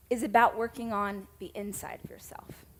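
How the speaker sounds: whispered for weight; emphatic whisper. Real, not acted. The main point to her audience, whispered softly. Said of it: "whispered key point".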